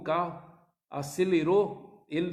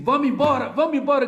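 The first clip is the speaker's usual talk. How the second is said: loud, higher yell to leave; shouting; 7 semitones higher, 9 dB louder, faster than usual. Retold or imitated. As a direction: bark it at her to drive off.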